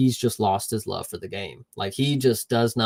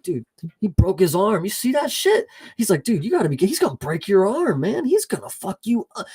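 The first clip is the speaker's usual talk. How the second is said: panicked buddy; 8 semitones higher than usual. Retold or imitated.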